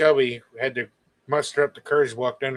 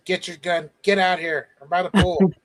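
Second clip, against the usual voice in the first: louder, higher urgent summons; urgent phone call; 5 semitones higher, 4 dB louder than usual. Retold or imitated. Brother phoning for armed help, urgent. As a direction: call for backup in a hurry.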